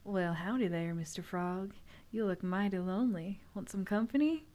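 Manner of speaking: a hint of a southern accent, purring. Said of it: "a southern accent".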